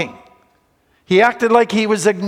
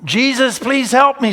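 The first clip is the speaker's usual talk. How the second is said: pleading plea; 4 semitones higher than usual. Retold or imitated. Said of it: "woman steps it up and she says".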